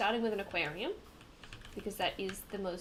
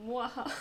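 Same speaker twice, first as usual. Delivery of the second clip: mock villain laugh; 3 semitones higher than usual. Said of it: "let's pretend".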